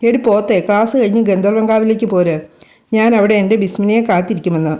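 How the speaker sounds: every word pressed out separately; each word stressed. A narrator's reading. Lover repeating the meeting place to her, each word stressed. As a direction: spell it out word by word, lightly. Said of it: "ഓരോ വാക്കും ഊന്നൽ കൊടുത്തു പറഞ്ഞു".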